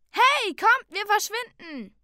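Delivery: high-pitched yell, loudest at the start; urgent shout. A narrator's reading. Brian urging the captives to flee, high shout. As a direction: call your friends away. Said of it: "Er schrie".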